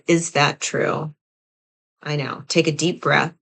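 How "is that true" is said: questioning yourself. Shown as a demonstration. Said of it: "you ask yourself".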